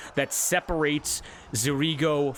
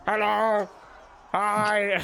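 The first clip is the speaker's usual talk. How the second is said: higher, light hello; cheery greeting; 5 semitones higher, much slower than usual. Acted. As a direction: wave and chirp hello. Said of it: "and Fuse go".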